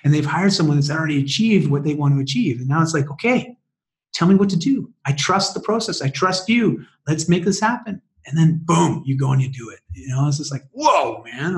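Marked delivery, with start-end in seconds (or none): 3.1-8.0 higher-pitched, eager go-ahead; excited client. Retold or imitated. New client telling the coach to go ahead, excited. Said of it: "they're excited". 10.7-11.6 drawn-out, hyped-up whoa; fired up. Retold or imitated. Coach reacting to a client diving in, fired up. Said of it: "I just get so fired up".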